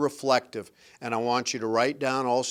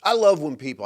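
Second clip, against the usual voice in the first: sarcastic; 6 dB louder, faster than usual. Real, not acted. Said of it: "I say this with sarcasm".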